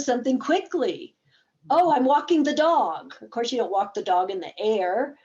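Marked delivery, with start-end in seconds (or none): 1.7-3.2 bright and loud, quick; excited. Shown as a demonstration. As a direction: blurt out an answer with energy. Quick game answer acted.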